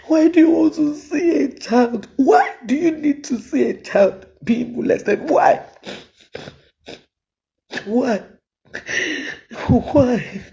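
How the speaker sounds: indignant why, pitch spiking on the last why; outraged plea. Real, not acted. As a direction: confront them with your outrage. Outraged mother challenging viewers.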